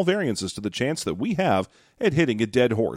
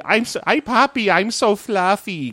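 comedian impression; 8 semitones higher than usual. Host mimics the fluffy comedian's catchphrase, high and hammed. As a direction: squeal it like the fat comedian's bit. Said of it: "The, the, the".

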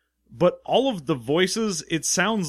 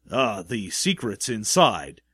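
bland script reading; 4 semitones lower than usual. Retold or imitated. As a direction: read it flat like a bored actor. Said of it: "All of his lines are just delivered with nothing".

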